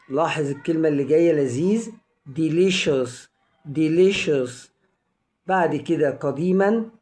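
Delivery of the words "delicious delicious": "delicious" modelled twice, C sounded as SH. Shown as a demonstration. Teacher modelling a word for learners, C as SH in "delicious". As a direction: say "delicious" with a clear SH, pause, repeat. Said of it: "بتنطق شين".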